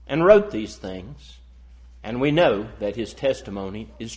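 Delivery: formal Bible reading, strong openings falling away; proclaimed verse, phrase by phrase; scripture reading. Real, not acted. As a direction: read the verses out firmly to a congregation. Reads scripture aloud to congregation.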